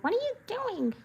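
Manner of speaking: high baffled what are you doing; mock baffled. Reacting to grown-up cartoon kids, high mock disbelief. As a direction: play up the disbelief. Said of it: "It's like".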